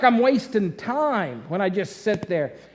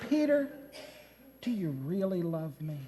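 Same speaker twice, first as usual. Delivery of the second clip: gentle probing; 5 semitones lower, 11 dB quieter than usual. Acted. Jesus asks Peter a second time.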